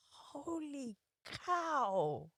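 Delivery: very soft, drawn-out amazement; retold stunned murmur; hushed awe. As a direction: breathe it out in quiet wonder, imitating your stunned reaction. Recalls awed first sight of venue.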